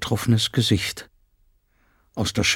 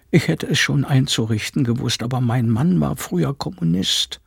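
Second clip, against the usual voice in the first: higher voice of a worried housekeeper; housekeeper confiding; 5 semitones higher than usual. Acted. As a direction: explain it carefully, in confidence. Frau Penck explains her husband.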